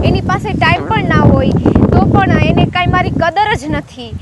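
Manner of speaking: loud, irritated venting to herself; fuming. Acted. Girl stood up by her date, fuming aloud. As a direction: grumble it out loud, fed up with waiting. Fumes alone about late date.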